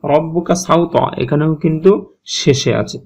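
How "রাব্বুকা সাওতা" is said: slow, chanted quotation; teacher quoting the verse to show ত; recited verse. Shown as a demonstration. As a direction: recite the words with care. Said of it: "এবার".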